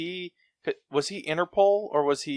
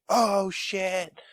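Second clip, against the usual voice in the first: high-pitched, hammed-up reaction; mock amazed realization; 10 semitones higher than usual. Viewer reacts to the penknife line paying off, mock amazed realization. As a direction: let it leap up as the payoff lands.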